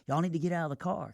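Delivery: high-pitched mock waitress yell; imitating a waitress calling out; retold yell. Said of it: "the waitress yells in the car".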